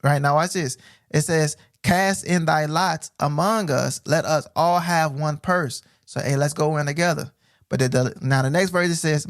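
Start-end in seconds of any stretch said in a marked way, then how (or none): 1.8-5.8 slow, solemn reading; measured preacher's reading; scripture reading. Acted. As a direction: read each word slowly.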